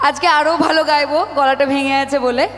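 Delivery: quick, low put-on village girl's chatter, lightly voiced; Rangamati's voice. Actress tells the crowd in Rangamati's voice that she'll sing with a cracked throat. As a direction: rattle it off as the character Rangamati. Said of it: "তোদের সঙ্গে রাঙামতির ভাষাটাই, ভাষাতেই কথাটা বলবো".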